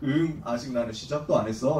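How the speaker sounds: low-pitched, lightly acted divine reply; hint of a deep voice of God; God's voice. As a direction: answer as God, voice dropped well down. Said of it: "이러니까 하나님이".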